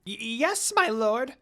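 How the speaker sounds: scared servant stammering to his lord; nervous stutter. A narrator's reading. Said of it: "Jokin stuttered nervously".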